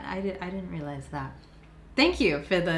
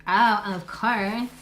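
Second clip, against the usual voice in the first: higher, louder, drawn out; emphatic; 4 semitones higher, 5 dB louder, much slower than usual. Acted. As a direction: stretch it out with gusto.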